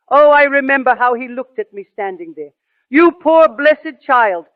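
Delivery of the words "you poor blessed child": tender, slow comfort. Retold or imitated. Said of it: "He was so touched".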